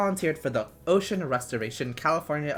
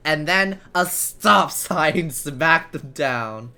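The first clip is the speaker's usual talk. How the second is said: laughing while reading; cracking up mid-sentence; 4 semitones higher, 8 dB louder, much slower than usual. Real, not acted. Laughing through narration.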